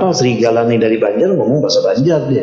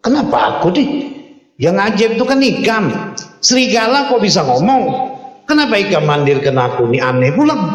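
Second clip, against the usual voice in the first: high, startled questions; startled shepherd; 7 semitones higher than usual. Acted. Shepherd startled, asks the wolf in a high surprised voice. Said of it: "Terkejut pulang si pengembala kambing".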